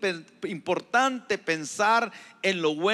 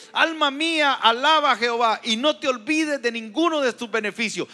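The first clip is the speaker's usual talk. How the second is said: proclaimed psalm; 4 semitones higher, 5 dB louder than usual. Acted. Pastor proclaims David's psalm.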